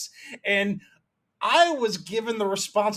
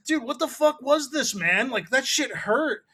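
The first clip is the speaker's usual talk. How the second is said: aggrieved complaint; 5 semitones higher than usual. Retold or imitated. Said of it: "And he's like".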